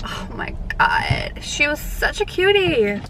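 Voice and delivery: breathy whispered aside. Real, not acted. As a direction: whisper it so she won't hear. Whispering about barista.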